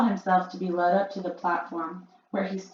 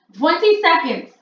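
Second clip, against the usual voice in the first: higher, loud gleeful countdown call; crying out; 10 semitones higher, 12 dB louder than usual. A narrator's reading. Grand High Witch calling the countdown to the witches. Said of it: "cried the Grand High Witch".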